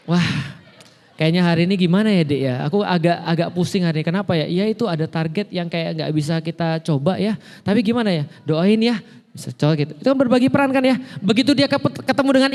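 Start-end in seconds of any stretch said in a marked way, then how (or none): 0.1-9.9 confiding to wife. Retold or imitated. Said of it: "Ketika ketemu istrinya".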